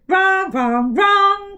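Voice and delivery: loud, rising cries; cried out. Acted. Rebecca cries out at the mouth's mistake. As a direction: cry out in triumph. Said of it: "cried Rebecca".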